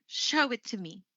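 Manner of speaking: "me" dropping at the end; sample command, voice falling away on "me"; falling command intonation. Shown as a demonstration. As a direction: give the order, ending down on "me". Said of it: "how about when you're issuing a command".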